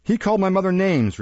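high-pitched, aggrieved defence; indignant protest. Acted. Boy defending himself to his master, indignant protest. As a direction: protest with the voice lifted.

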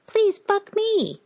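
very high, slow parrot squawk; Paloma. A narrator's reading. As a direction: squawk it out slowly like a begging parrot. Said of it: "it squawked".

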